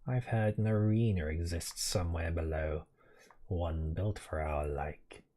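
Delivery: slow, measured warrior challenge; a proud bug warrior's dare; knightly warrior voice. Acted. Reads an NPC's dialogue in voice.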